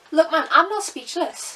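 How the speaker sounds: own accent coming through. Insisting they are not speechless after a five-star review: own accent slipping out. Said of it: "the accent came out there".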